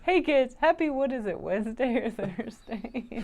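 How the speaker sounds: high mimicked announcement, slowing at the end; smart speaker playback. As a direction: imitate the muddled broadcast to the kids. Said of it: "So it said".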